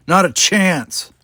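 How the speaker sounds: slow, loud firm vow. A narrator's reading. Captain refusing to surrender, slow loud vow. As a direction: set your jaw and promise. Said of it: "I vowed".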